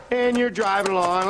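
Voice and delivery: carefree singsong. Acted. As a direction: hum along without a care. Carefree driving with sung la la.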